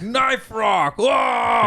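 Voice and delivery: high, loud mock amazement; excited shout. Showing off his new knife rock, excited shout. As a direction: yell it like a kid finding treasure. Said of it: "I was like".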